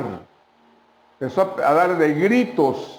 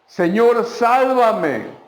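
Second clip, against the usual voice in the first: mock desperate cry; 6 semitones higher, much slower than usual. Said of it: "empezó a gritar".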